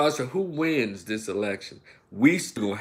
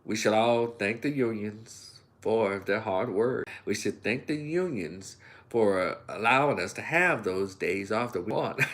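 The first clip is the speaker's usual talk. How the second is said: mock polite politician for white voters; lightly voiced careful candidate; prim formal Kamala; 3 semitones lower, 4 dB quieter than usual. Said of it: "Then she's around white folks in Pittsburgh".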